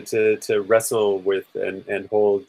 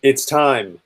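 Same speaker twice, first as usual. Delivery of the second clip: raised, higher-pitched call to an ally; urgent call; 4 semitones higher than usual. Acted. Amanda to Alric as they battle the vampire, urgent call. Player calls to ally mid-fight.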